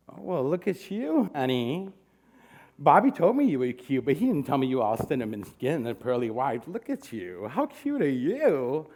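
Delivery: a lightly voiced flamboyant host, fond and teasing; flirty host voice. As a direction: coo over the newcomer, half-mocking. Ron voiced flirting in the story.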